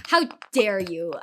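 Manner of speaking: slow, mock-dramatic accusation; dramatic indignation. Imitating the dude confronting the streamer at lunch, dramatic. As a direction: imitate his drawn-out outrage. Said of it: "he was very dramatic".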